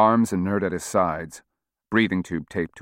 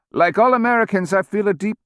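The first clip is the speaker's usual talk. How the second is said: lightly voiced, halting old politician; 6 dB louder than usual. A narrator's reading. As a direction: read fed lines like a dazed old man. Old speaker reading fed lines.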